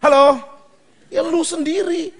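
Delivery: high, loud jab at the crowd; loud call-out. Acted. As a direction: call them out loudly. Calling out audience. (teriak menyindir jemaat)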